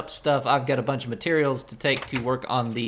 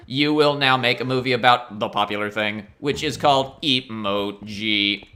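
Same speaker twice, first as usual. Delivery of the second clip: robot voice. Retold or imitated. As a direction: sound like a machine giving orders. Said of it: "And then some robot".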